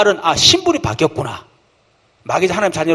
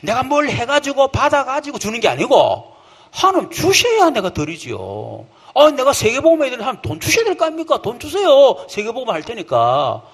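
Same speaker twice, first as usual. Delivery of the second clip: brazen asking; 6 semitones higher than usual. Retold or imitated. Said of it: "believer boldly asks God".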